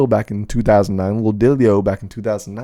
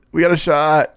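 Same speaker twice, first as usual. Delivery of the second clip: whisper; 6 semitones higher, 4 dB louder than usual. Real, not acted. Same line whispered.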